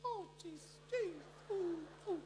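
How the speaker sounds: very high falsetto moans; mock worshipper. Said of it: "Dia belagak".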